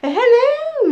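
loud, drawn-out sly hello; a sneaky predator greets its lunch; crocodile hello. Acted. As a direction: crocodile sweetly greets the little elephant. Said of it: "And the crocodile said".

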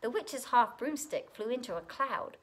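lively rhyming storybook reading; story narration. A narrator's reading. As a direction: read to children with a bouncy lilt. Reads picture book aloud.

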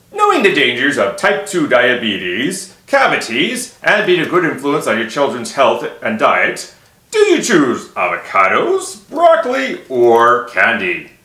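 slow, deliberate question with loaded emphasis; quizzing the parents. Shown as a demonstration. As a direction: spell out the choices slowly and pointedly. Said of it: "well, they say".

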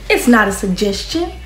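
strict coach. Retold or imitated. Imitating strict coach lines.

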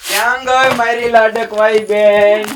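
high, slow, fond calling out; a brother calling lovingly for his little sister; affectionate call. Acted. Brother calls for his sister, slowly and fondly.

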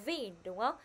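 ordinary delivery

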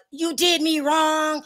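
slow, drawn-out retold complaint. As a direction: lean into each word of the complaint. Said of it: "He was like".

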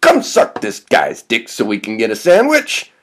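high yell on the name, then easing; hollered call-over; shouting. Acted. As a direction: summon a friend from afar. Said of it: "Doug shouts".

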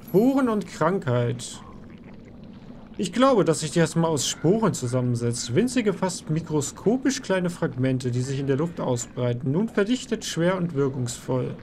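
slow, weighty storyteller read; dramatic lore reading. Acted. Reads item lore aloud.

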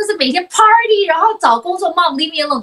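put-on eager young adult. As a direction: rattle it off like a restless kid leaving home.

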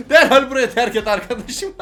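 put-on bossy toddler voice. Voicing toddler kicking uncle out.

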